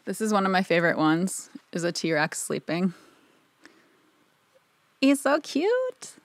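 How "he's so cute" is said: put-on high, slow baby-talk coo. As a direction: coo over it like a puppy. Cooing over dinosaur picture.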